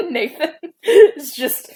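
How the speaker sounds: giggling through the line; laughing while reading. Real, not acted. Laughs reading own story.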